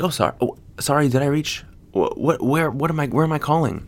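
high, loud sarcastic apology; mock apology. Mocking the caller, sarcastic loud apology. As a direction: play dumb, mockingly. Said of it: "I was like".

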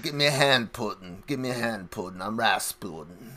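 a hint of a put-on Russian voice; Rasputin. Rasputin asking Putin for a hand, lightly accented voice. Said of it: "I tried to do the Rasputin accent".

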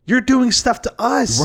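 high, indignant protest; heated retort. Retold or imitated. Arguing back at the neighbor, high-pitched protest.

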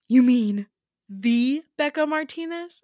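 high, loud, disbelieving you mean the Becca Martinez; starstruck gasp. Retold or imitated. Friend meets a famous heiress in the dream, high starstruck gasp. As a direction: gush at meeting a celebrity.

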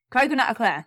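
laughing with a mouthful of chocolate; mouth full. Real, not acted. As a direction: talk round a mouthful of sweets. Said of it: "don't talk on the podcast with my mouth full".

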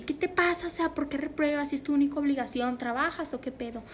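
retold angry yelling. Dad berating daughter over a failed class, retold yelling. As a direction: imitate an outraged parent, pitch jumping up then easing down. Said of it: "me empezó a gritar de que".

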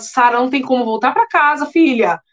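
husband desperately pleading with crying wife. Retold or imitated. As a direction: beg her to stay put, growing frantic.

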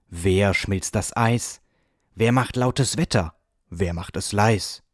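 measured verse recital, as if from a stage; stage recitation. A narrator's reading. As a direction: recite each question like a poet onstage. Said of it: "sprach er wie von einer Bühne herab".

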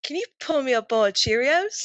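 put-on Australian accent for a question; performed Australian accent on request. Shown as a demonstration. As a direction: do your best Aussie, lifting at the end. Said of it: "entertain our ge-, our listeners with an Australian".

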